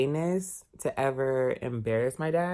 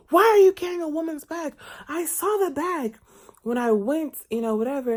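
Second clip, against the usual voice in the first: high, loud mocking voice of a prying older woman; scandalized nosy lady; 13 semitones higher, 7 dB louder than usual. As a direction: grill him like a scandalized auntie.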